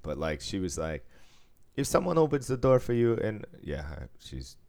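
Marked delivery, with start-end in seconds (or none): 1.8-3.1 put-on Chinese accent. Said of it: "that accent went so fucking into".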